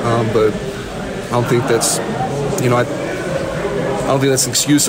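slow, halting words with long pauses; pausing with emotion. Real, not acted. Guard owning the loss, halting and slow. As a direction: struggle to get it out, slowing. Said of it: "You can hear the pauses".

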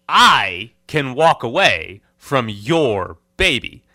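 loud joking rant. Real, not acted. Joking rant about crying baby.

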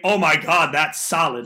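excited. Retold or imitated. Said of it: "there's a big difference".

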